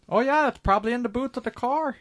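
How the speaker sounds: put-on doing Tom Holland's native accent; mock British accent. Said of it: "I don't know why it's Canadian".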